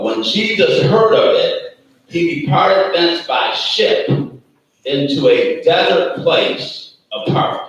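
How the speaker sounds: slow, deliberate Bible reading; scripture reading. Acted. Preacher reading the verse slowly to the congregation.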